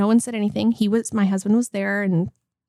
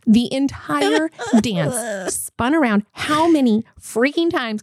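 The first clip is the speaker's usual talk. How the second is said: retold ticked off; 3 semitones higher, slower than usual. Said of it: "I was so ticked off".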